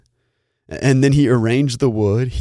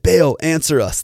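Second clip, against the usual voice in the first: mild shout, pitched up; shouted plea; 6 semitones higher, 4 dB louder than usual. A narrator's reading. Prophets call on Baal from morning until noon, mildly shouted. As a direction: call up to a silent god, moderately loud. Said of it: "they shouted".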